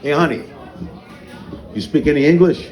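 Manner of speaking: put-on light Brooklyn accent, chatting up the clerk. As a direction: let some Brooklyn come out. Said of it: "the Brooklyn in me comes out".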